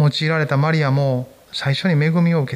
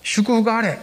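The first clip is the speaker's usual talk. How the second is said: raised, a light demo of the angel's blessing; 4 semitones higher, slower than usual. Shown as a demonstration. Pastor showing the congregation how the angel greeted Mary, raised and bright. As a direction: call out the blessing like the angel, higher. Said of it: "そんな感じです".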